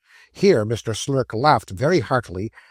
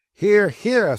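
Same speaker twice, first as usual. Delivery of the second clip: eager cheer; 8 semitones higher, 5 dB louder than usual. Acted.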